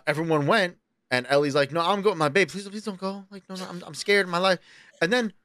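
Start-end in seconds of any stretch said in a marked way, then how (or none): 1.7-4.6 pleading. Retold or imitated. Retelling girlfriend heading into the woods, pleading. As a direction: beg in a small, hushed voice.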